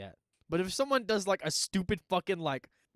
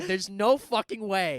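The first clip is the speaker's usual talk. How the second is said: slow, loud, high insistence; emphatic disbelief; 4 semitones higher, 5 dB louder, slower than usual. Acted. Host acts out certainty the villain is dead, emphatic disbelief. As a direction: drag out each word in loud disbelief. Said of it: "this one was the most like".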